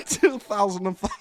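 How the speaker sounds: put-on loud, laughing stab at a Welsh accent; bad Welsh accent. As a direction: attempt Welsh and crack up. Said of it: "gonna be the worst accent".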